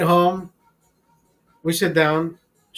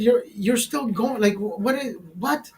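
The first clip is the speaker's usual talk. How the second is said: higher mock disbelief; 5 semitones higher than usual. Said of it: "she said".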